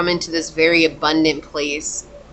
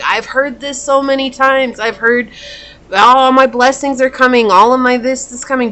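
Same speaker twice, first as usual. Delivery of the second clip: jaded viewer; 5 semitones higher, 4 dB louder than usual. Retold or imitated.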